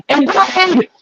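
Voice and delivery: high-pitched hollered shout-out. Real, not acted. Host giving this man a shout out, hollering.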